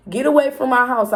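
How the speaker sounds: mock yell at ex. Yelling at ex outside.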